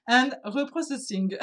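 self-conscious English accent, close to giggling. Shown as a demonstration. French speaker finishes the therapy's English name, attempted English accent. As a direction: have an amused go at English pronunciation. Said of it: "attention, l'accent anglais, pardon d'avance".

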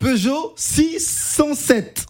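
slow punchline. Acted. Punchline delivered slowly.

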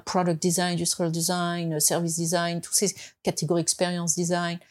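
English design terms in an American accent; French speaker putting on an American accent. Real, not acted. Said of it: "j'ai pris l'accent américain et je parle américain".

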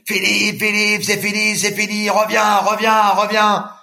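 high-pitched call across the water, pleading; retold coach yelling. Coach shouting from the boat for Philippe to come back, high and urgent. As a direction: yell at him to turn back. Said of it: "mon entraîneur me crie très, très fort dessus".

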